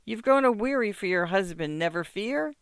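high, wheedling protest; hurt muzhik. Acted. Muzhik protesting to the mistress, high and wheedling. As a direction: plead your innocence to her.

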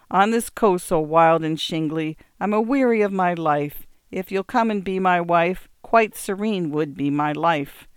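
put-on recitation in an English accent. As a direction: read the poem in an English accent. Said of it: "the nurse went on".

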